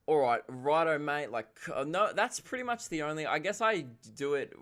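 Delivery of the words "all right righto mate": Aussie slang. Shown as a demonstration. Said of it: "Like, mate".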